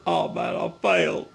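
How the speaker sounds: breathy whisper of mock despair; whispered defeat. Man at his workbench whispering mock defeat over a mistake. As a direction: whisper it like a lost cause. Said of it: "whispered lament".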